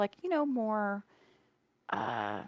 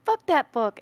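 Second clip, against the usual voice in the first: shouted fuck that, much higher and louder; loud mock outburst; 9 semitones higher, 9 dB louder than usual. Fan reacting to a heartbreaking book, shouting fuck that. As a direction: blurt it out loud in mock rage. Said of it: "I go".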